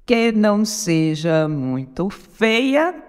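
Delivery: very slow, syllable by syllable; contando sílabas. Shown as a demonstration. (escandindo devagar, sílaba por sílaba)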